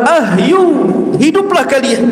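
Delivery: lightly voiced command, pitched high; commanding Dajjal. Dajjal ordering the graves to come alive, mild high-pitched command.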